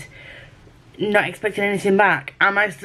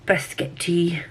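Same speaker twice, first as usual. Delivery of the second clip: Scottish accent; 4 dB quieter, slower than usual. Shown as a demonstration. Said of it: "I have to say biscuit tea in a Scottish accent".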